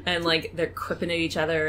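ordinary talk, nothing marked

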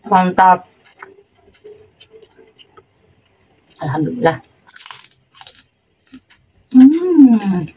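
talking while eating cracker; chewing between words; mouth full chewing. Real, not acted. Seen 1: Holds white cracker, bites it around 4.0–5.5, chewing afterwards.

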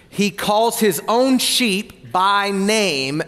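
very slow, each word laid down deliberately; drawn-out scripture emphasis for the congregation. Shown as a demonstration. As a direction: read it slowly so every word lands. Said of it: "Now watch this".

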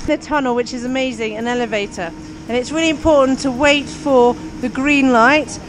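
loud, upbeat calling over noise; cheery ski instructor shouting. Real, not acted. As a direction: call out cheerfully to the group.

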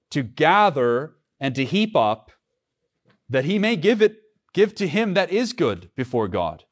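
preacher reading the verse out to the congregation, declaiming; scripture reading. Acted. Reads scripture aloud with force.

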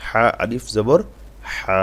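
slow spelling, final হা held long; one-alif stretch. Shown as a demonstration. Teacher showing the long vowel, final হা drawn out. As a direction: pause after জবর, then stretch out হা. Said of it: "এক আলিফ টান হবে".

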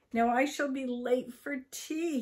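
lightly acted worry at being late; alarmed. A narrator's reading.

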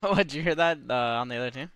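glitchy robotic voice over the mic. Real, not acted. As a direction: voice garbled by a bad connection. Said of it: "Your voice sounds robotic".

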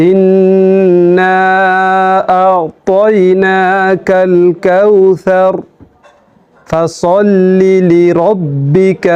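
flowing Quran recitation; recited again, joined. Shown as a demonstration. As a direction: recite the whole sura in longer phrases. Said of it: "আমি আবার বলছি".

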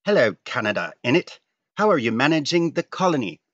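loud, high, rough posh British voice; posh British accent. Acted. UK greeting Canada in a comic, mock posh British accent. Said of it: "proper posh voice".

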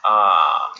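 a loud drawn-out wistful ah; a touch of wistful recognition. A narrator's reading. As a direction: sigh over an old familiar problem. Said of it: "said Charles wistfully".

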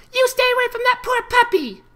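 high, loud furious foal; raging filly. Acted. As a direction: bark the order like an enraged child. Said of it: "their tones shifted from reproach, reproach to rage".

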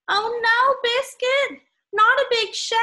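high, loud playful oh no; mock dismay. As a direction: gently scold a naughty puppy. Child scolding puppy in story.

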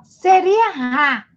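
RÁ with a breathy, h-like strong R. Shown as a demonstration. Teacher showing pupils the unwanted sound, strong h-like R in "rá". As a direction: say "rá" with the R as an aspirated H. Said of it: "ele fica fraco. Aí, em vez de rá".

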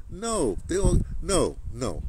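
usual speaking voice

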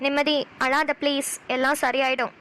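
gentle, slowed-down reassurance; consoling. Acted. Friend begging her not to cry, consoling. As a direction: soothe a tearful friend, unhurried.

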